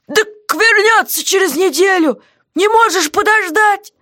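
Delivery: jailer's voice, clearly put on; gruff jailer. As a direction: play the surly jailer shouting down. Guard voiced by reader.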